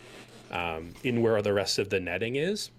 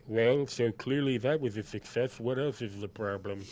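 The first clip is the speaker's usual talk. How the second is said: lightly voiced tabaxi figure; a touch of altered character timbre; Farguild; 2 semitones higher than usual. Farguild asks Sen about the problem, lightly voiced. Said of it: "and he says".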